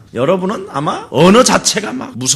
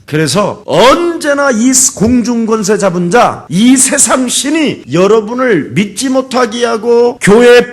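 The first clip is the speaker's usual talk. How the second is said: raised, insistent pulpit delivery; forceful preaching; 6 semitones higher, 4 dB louder than usual. Real, not acted. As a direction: press each phrase on the congregation. (힘주어 경고하는 설교)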